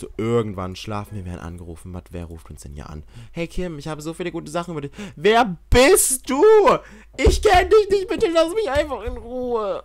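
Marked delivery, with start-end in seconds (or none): 5.2-9.8 much higher, louder mock-scared voice; high mock-panicked plea; voicing the character. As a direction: squeak it out like a frightened stranger. Voicing the game character answering a call.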